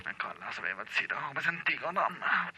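low, soft exasperated grumble; frustrated mutter. Acted. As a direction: grumble it under your breath.

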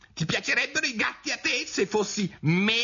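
very high indignant mouse; shrill, vehement squeak. A narrator's reading. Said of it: "squittì il topo con un urlo stridulo e impetuoso".

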